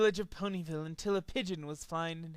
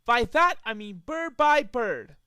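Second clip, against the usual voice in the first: gruff threat; 5 semitones higher, 6 dB louder than usual. Acted. Dash continuing threat.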